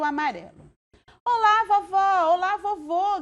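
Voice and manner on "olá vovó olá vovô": high, loud call of greeting; excited shout. A narrator's reading. The daughter greets her other grandparents with a high, excited shout. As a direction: shout a happy hello. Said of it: "gritou a filha do Co".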